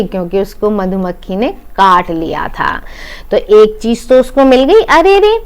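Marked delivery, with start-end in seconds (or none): 4.9-5.3 pained cry. Acted. Master stung by a bee.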